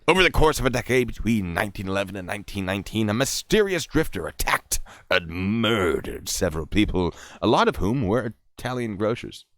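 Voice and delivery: punchy true-crime reading voice; theatrical article read, drawing out the key names; dramatic story narration. Acted. Reads article.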